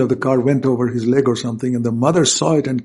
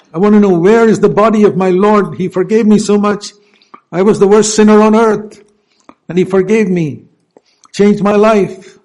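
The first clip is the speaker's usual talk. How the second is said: higher, louder, urgent plea for her Lord; pleading Mary; 7 semitones higher, 9 dB louder than usual. Acted. Mary begging to know where her Lord's body is, loud and high. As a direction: cry out as a desperate forgiven woman. Preacher voices Mary seeking Jesus.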